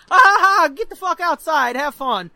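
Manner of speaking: high imitated laugh into the words; laughing mom. Mom sending kids out, laughing as she talks. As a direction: dismiss them while cracking up. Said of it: "My mom's laughing my ass off".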